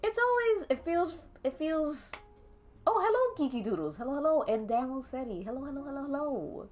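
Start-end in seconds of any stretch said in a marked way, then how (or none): none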